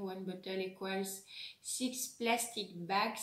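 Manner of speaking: English read with a strong French accent, slowing at the end. Real, not acted. Vlogger reads English on the packaging in a French accent. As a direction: sound out English words the French way, carefully. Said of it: "excusez, hein, mon accent, pourri, en anglais".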